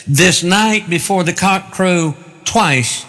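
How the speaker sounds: slow, deliberate scripture quote with weight on "This night"; emphatic. Retold or imitated. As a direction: draw out "This night" as a firm pronouncement. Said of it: "it's in the emphatic voice".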